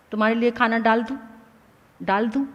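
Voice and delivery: quick, offhand "डाल दूं" tossed out fast; casual offer. Shown as a demonstration. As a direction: rattle off the everyday "खाना डाल दूं" carelessly. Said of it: "कितने ताकतवर शब्द हैं". (जल्दी-जल्दी, लापरवाही से "खाना डाल दूं?")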